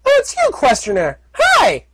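high, bright happy hello; excited greeting. Acted. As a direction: greet an old friend gleefully. Filly greets friend.

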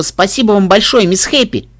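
high, loud, bursting with gratitude; excited thanks. Acted. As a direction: let the thanks burst out happily. Filly thanking, building.

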